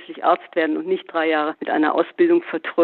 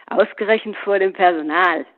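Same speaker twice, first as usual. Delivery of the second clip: mocking echo; 2 semitones higher than usual. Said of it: "höhnte Paul".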